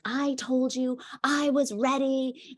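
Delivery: put-on high, slow indignant kid whine; a hint of a protesting boy; whiny child. Son protests to the nanny who came back, in a high whine. Angry child insists he's ready.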